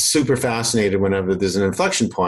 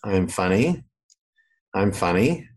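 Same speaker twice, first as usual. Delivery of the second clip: same rote delivery each time, slight lift at the end; understated mock slogan on a loop; repeated marketing message; 2 semitones lower, slower than usual. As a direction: recite it mechanically, with pauses between. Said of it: "I gotta repeat it".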